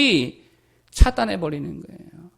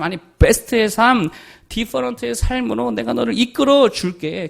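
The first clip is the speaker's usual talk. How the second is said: God's reassuring voice; 3 dB louder than usual. Acted. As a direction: comfort a frightened child with promises. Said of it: "하나님의 음성 들어야지요".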